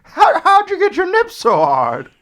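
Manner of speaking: shrill mock interviewer yelling; high excited shout. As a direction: squeal it out like a hyped host. Mock talk show host grilling.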